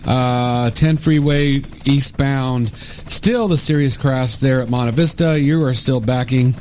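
brisk traffic report read; radio traffic report. Acted.

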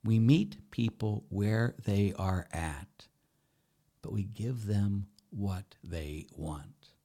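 slow down and lean on them; slow, deliberate restatement. Shown as a demonstration. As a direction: spell out each word slowly, stressing them. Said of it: "You understand?".

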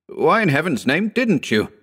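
exasperated high-pitched outcry; shouting. A narrator's reading. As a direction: shout it as an indignant demand, voice leaping up. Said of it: "Howard shouted".

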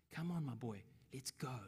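hushed, softened voice; soft coaxing. Acted. God urging his boy onward, softly. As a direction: coax quietly, nearly whispering. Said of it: "He whispers to him".

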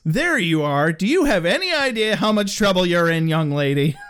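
lightly voiced stern dad; mock parental telling-off, swooping on the key words; scolding demon father. Demon father to runaway daughter, mildly scolding. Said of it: "Hey, I did a voice".

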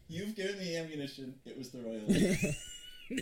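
drawn-out, rising mock quote; mocking imitation. Player throws the host's words back, mocking.

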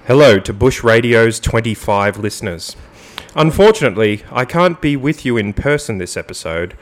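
mock-formal radio statement read; measured announcer reading with emphatic phrase openings; sexy radio voice. Host reads absent co-host's written statement, sexy radio voice. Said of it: "get it in my sexy radio voice".

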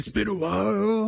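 laughing. Real, not acted. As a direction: giggle it out. Laughing repeat of own line.

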